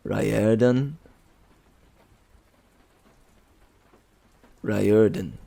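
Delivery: Riordan said as RYE-er-dan, rising then falling; trying out Riordan. Shown as a demonstration. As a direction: test Riordan as RYE-er-dan several ways. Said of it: "it's how you say".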